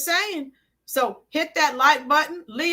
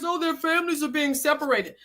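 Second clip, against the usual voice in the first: mock-sorrowful quote, said quickly and a bit softer; mocking whine; 3 dB quieter, faster than usual. Livestreamer mocking critics' crocodile tears, fake sad whine. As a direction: sneer at the sob story in a fake sad tone. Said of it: "stop it with the crocodile tears".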